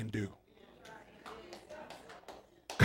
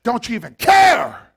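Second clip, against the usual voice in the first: mild retold scream; 6 semitones higher, 9 dB louder than usual. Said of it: "they were screaming".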